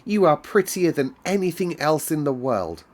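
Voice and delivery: high, loud and thrilled; delighted. A narrator's reading. Girl praising the robin, high and delighted. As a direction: gush over the little bird. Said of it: "she cried".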